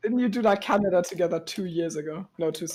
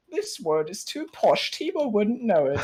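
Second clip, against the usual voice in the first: pretentious voice. Retold or imitated. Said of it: "my pretentious voice".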